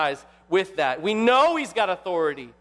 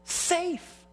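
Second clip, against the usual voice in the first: incredulous reply, pitched high and slowing down; high, drawn-out astonishment at the very question; Mister Beaver; 6 semitones higher, slower than usual. Acted. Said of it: "And Mister Beaver responds".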